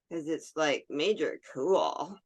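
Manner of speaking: put-on slow ditzy Valley Girl drawl. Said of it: "Sound like the Valley Girl from hell".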